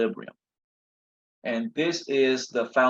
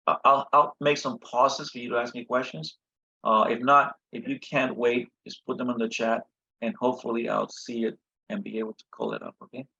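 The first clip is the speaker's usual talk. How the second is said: hoarse from yelling. Real, not acted. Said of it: "You can tell my voice is a little shot here also".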